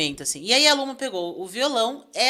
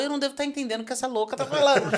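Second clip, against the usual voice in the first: laughing while telling; 5 semitones higher, faster than usual. Real, not acted. Laughing at the confusing stranger.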